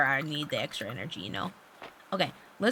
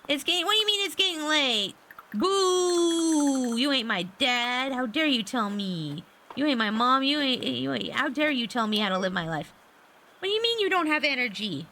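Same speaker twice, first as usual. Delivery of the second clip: mock indignation; 5 semitones higher than usual. Player defying the game's bedtime warning, mock indignant. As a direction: heckle the bossy game, playfully outraged.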